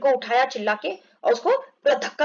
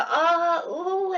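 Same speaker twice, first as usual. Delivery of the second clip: mock groaning; 5 semitones higher, much slower than usual. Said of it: "ऐसे करके चिल्लाने लगा".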